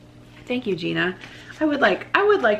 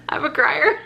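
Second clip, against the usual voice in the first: much higher, giggling through the words; squeaky laughing repeat; 9 semitones higher than usual. Acted. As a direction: squeal it out mid-laugh as a self-tease. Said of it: "like, I'm a crier".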